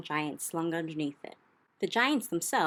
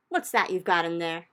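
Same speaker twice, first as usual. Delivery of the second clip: demanding; 5 dB louder than usual. Acted. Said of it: "demanded to know".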